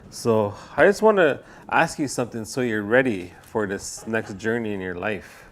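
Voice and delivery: embarrassed fortune teller. Acted. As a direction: play a fumbling, apologetic psychic. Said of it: "Embarrassed fortune teller".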